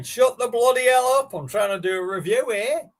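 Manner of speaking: high, loud annoyed shout; Simo yelling. Retold or imitated. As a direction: bellow it at the noisy kitchen. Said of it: "Simo's there going".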